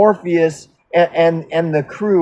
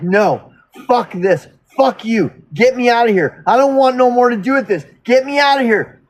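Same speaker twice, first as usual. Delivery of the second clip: mock angry refusal, rising in pitch; retold snapping; 4 semitones higher than usual. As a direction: imitate someone losing it, building to a higher pitch. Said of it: "like, practically fucking snaps".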